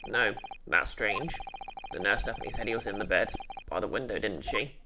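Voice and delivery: low voice, puzzled; a deep-voiced young man thinking aloud; puzzled male sidekick. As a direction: sidekick voice, pitched low and wondering. Male detective character voiced.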